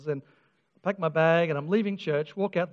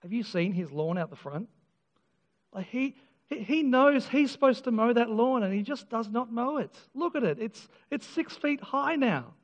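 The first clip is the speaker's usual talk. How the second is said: brother complaining; 3 semitones higher than usual. Retold or imitated.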